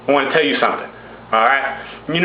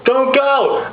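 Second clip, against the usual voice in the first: high, halting, overwrought plea; hammed-up breakless anguish with long pauses; mock Twilight acting; 10 semitones higher, slower than usual. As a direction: imitate an overwrought actress stuck on her words. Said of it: "acid reflex orgasm face".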